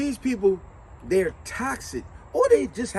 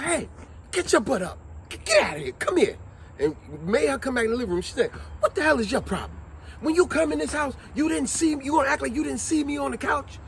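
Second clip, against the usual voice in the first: higher-pitched, indignant telling-off; scolding mother; 5 semitones higher than usual. Retold or imitated. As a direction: act out a mother confronting her daughter. Mother scolding daughter in retold video.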